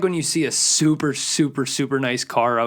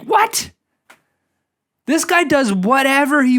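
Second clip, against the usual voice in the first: baffled what; 9 semitones higher, 4 dB louder than usual. Acted. Baffled reaction to the joke.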